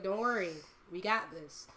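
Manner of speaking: retold gentle reassurance; reassuring. Acts calming an anxious friend.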